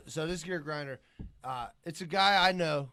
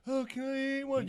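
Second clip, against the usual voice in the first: higher-pitched mock pleading question; imitating his wife; 6 semitones higher than usual. Man mimicking the wife who calls about edibles, mock pleading. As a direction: put on a wheedling asker, raised in pitch. Imitating the wife's guilty request.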